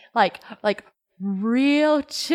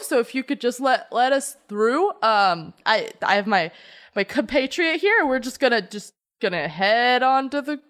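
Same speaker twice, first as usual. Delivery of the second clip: smooth-talk the guards with a slightly raised nervous voice; lightly voiced Cammy; 2 semitones higher than usual.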